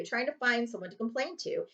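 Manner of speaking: ordinary delivery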